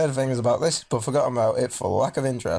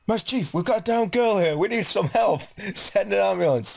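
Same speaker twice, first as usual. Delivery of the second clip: higher, hammed-up soldier radio voice; mock radio call; 8 semitones higher than usual. Calling the emergency line as if radioing a commander, hammed-up. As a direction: bark it like a field report.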